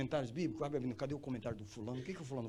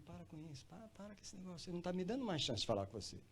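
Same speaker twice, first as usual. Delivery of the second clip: very soft, slightly raised imitated voice; hushed divine rebuke; 3 semitones higher, 7 dB quieter, faster than usual. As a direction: quietly plead as the Spirit interrupting. Voices the Holy Spirit interrupting him. (voz baixinha imitando o Espírito)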